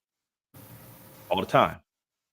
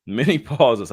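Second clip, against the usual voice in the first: laughing; 4 semitones higher, 5 dB louder, slower than usual. Real, not acted. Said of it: "I went to a small voice".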